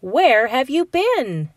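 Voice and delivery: lightly hammed-up surprise; mock surprise. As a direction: ask it as if he's been gone forever. Alligator questions late groundhog.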